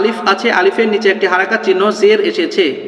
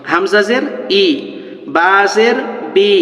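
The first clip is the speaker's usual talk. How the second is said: slow drawn-out spelling drill; slow recitation; much slower than usual. Shown as a demonstration. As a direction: chant each letter slowly for students to repeat. (ধীরে ধীরে বানান পাঠ)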